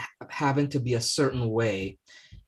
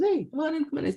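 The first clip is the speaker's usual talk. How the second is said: rescuer calling out; faster than usual. Acted. Canoe rescuer calls to priest.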